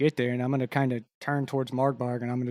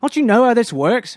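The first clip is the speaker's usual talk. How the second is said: higher, louder acted fury; playing anger; 8 semitones higher, 6 dB louder than usual. Red cloak berating the attackers, furious and loud. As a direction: tear into them like an angry gang heavy. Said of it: "like, playing anger".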